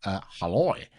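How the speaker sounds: Halloy in a put-on Australian accent; attempted Australian accent. Shown as a demonstration. Streamer showing viewers the weird accent he says Halloy in, attempted Australian accent. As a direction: say "Halloy" with a mock Aussie twang. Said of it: "Australian accent, I think".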